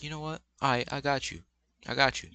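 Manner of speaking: a high, hushed mock-menacing threat; menacing boyfriend. Mocking the boyfriend threatening her, high and hushed.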